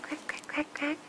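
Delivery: soft unvoiced quacking; whispered quacks.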